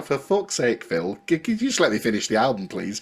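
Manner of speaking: put-on wobbly Liverpool accent drifting to Manchester; a singer. Retelling the singer begging his producer to wait, bad Liverpool accent. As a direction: plead in an imperfect northern English accent. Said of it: "that was more Manchester than Liverpool".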